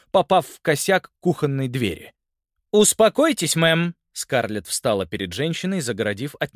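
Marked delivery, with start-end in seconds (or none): 2.7-4.0 высоко и громко, властно; перекрикивает ссору; громкий окрик. A narrator's reading. Полицейская унимает женщину. (полицейская громко велит женщине успокоиться)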